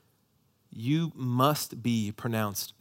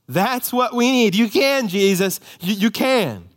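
much higher and louder, slow and emphatic; loud declaration of faith; 8 semitones higher, 7 dB louder, slower than usual. Acted. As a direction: cry out the faith to Jesus.

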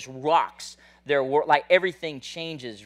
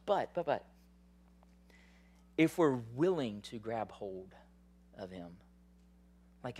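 soft preaching; 6 dB quieter than usual. Real, not acted. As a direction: draw them in close, almost hushed. Soft intimate preaching passage.

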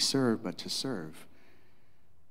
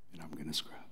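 breathy whispered vow, much lower; whispered Jesus promise; 8 semitones lower, 17 dB quieter, faster than usual. Acted. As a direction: drop to a whisper on the repeat. Repeat as a whisper.

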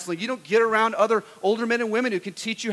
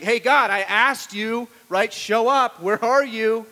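slow, louder, huffy complaint to heaven; impatient demand to God; 4 semitones higher, 6 dB louder, slower than usual. Retold or imitated. Lounging believer grumbling at God, slow and loud. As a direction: demand he show up, put out. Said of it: "and you're like".

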